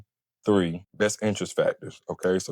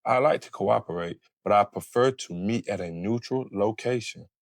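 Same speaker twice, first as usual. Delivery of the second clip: calm, cool. Shown as a demonstration. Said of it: "calm, cool, and collected always?".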